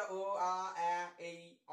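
अ, आ, ॲ, ए, ई, अ as separate held vowels; vowel sounds demo. Shown as a demonstration. Teacher lists the sounds of A, each vowel separate. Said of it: "असा उच्चार आला".

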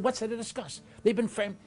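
high, loud indignant protest; speaking loudly. Retold or imitated. Juror defending the two innocent boys, loud and indignant. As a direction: cry it out in disbelief. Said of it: "speaking loudly".

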